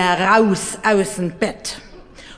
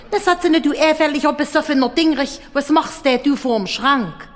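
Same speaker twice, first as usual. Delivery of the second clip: scolding wife; 5 semitones higher, faster than usual. Acted. Angry wife scolds drunk husband.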